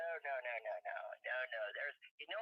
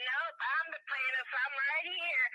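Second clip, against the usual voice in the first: higher and louder, slow first words, insisting she is here; retold outburst; 9 semitones higher, 7 dB louder, slower than usual. Mother telling the bailiff she is the plaintiff, loud and indignant. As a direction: stand up and announce yourself, indignant. Speaking up in court.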